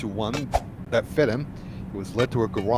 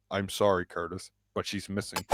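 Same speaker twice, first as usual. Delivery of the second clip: a touch of sorrow, trailing off softer; understated sadness; 3 semitones lower, 6 dB quieter than usual. Acted. Uncle John tells Curtis that Alexis is missing, mildly sad. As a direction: break bad news sadly, letting the voice sink. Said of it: "showed a deep sigh and sadness".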